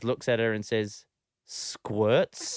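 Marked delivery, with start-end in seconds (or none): 1.5-2.6 dry, unimpressed one-word question; deadpan. Retold or imitated. Three-year-old deadpans her dance teacher, dry and unimpressed. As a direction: play it totally straight, as if it's obvious. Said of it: "And Ruby just deadpans".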